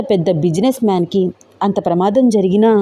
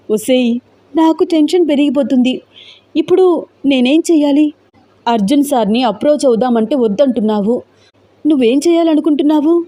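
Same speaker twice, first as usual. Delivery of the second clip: higher, tense urgent questioning; 6 semitones higher than usual. A narrator's reading. Teja, tense, demands to know what Roopa plans to do. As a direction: press her anxiously for a plan. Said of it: "టెన్షన్గా అడిగింది తేజ".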